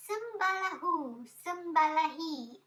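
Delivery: magic incantation. Acted. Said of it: "I'm doing some magic".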